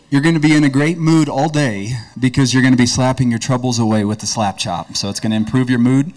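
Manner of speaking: preacher imitating an infomercial for laughs; mock infomercial pitchman. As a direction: ham up the TV pitchman's promises. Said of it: "here are a few of the Slap Chop promises".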